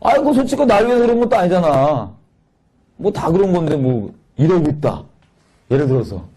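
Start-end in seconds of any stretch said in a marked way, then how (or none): 0.0-5.0 higher mocking whine at the start; sarcastic sneer. Ungrateful son sneering at his father, mocking. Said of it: "비아냥거리는 게".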